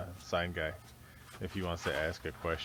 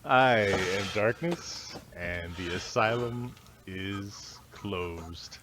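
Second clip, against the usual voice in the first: slow ominous host sign-off; dramatic sign-off; 4 dB louder, much slower than usual. Acted. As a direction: drag it out, mock menacing.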